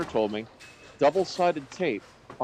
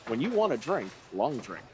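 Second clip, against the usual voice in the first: announcer voice; 4 dB quieter than usual. Shown as a demonstration. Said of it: "my announcer voice".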